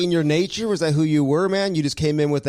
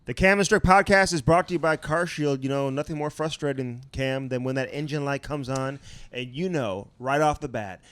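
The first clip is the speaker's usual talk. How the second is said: slow, deliberate ad read with the number spelled out; sponsor ad read; slower than usual. Acted. Podcast host reads CarShield ad to listeners, slow promo read. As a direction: sell the product, stressing the promo code.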